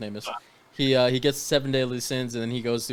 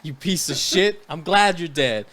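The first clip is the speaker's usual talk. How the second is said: higher, louder, slow gloating shout; mock taunting yell; 7 semitones higher, 7 dB louder than usual. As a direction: spit it out like a gloating villain. Taunting the dead brother.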